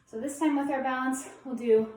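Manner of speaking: breathless, gasping between words; winded, talking while catching breath. Real, not acted. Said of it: "let me catch my breath".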